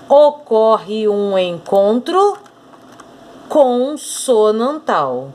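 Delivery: slow, deliberate phrase by phrase; measured teacher dictation. Shown as a demonstration. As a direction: dictate it slowly so they can mark along. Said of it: "Agora eu quero marcar junto com você".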